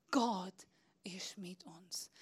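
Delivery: slow, soft unvoiced whisper. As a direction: hush the room with it. Slow whisper after calm list. (langsam geflüstert)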